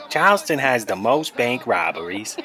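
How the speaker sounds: a light put-on Boston accent, slowed; mock thick Boston accent. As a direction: lean into the Boston accent, half joking. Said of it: "I don't know why I'm trying to talk Boston".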